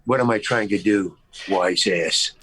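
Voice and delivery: low, muttered inner jab; retold silent comeback, pitched well down; inner wise-ass retort. Insulted actor answers the director in his head, low and snide. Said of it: "And in my brain, I'm saying".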